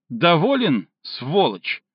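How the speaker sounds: a mild, acted cry with a catch of a sob; hysterical sobbing yell. Girl calling Stinov at dawn, mild hysterical cry. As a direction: fling the insult out, half-sobbing. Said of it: "с характерным истеричным всхлипом выкрикнул".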